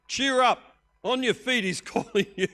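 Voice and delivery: high, loud excited shout; crowd shout. Acted. The crowd shouting at the blind man to get up. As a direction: yell it up over the noise of a mob.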